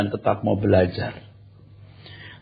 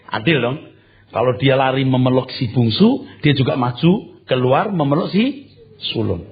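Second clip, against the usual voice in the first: ordinary delivery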